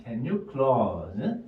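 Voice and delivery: slow first chunk of the phrase. Shown as a demonstration. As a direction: say the chunk slowly on its own. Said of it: "요 한 묶음". (첫 묶음을 천천히)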